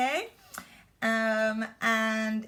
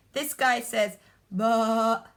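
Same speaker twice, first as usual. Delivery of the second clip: sheep bleat; 5 dB louder than usual. Shown as a demonstration. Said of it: "They are different".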